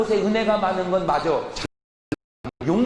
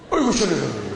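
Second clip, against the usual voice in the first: bath sigh; 6 semitones lower than usual. Shown as a demonstration. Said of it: "이거 물속에 스스로".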